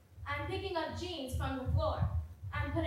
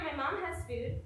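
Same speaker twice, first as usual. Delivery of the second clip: usual speaking voice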